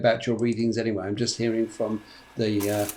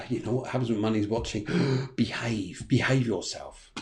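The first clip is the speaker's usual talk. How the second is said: mock scolding; 3 semitones lower, 7 dB quieter than usual. Mock telling off by Mummy.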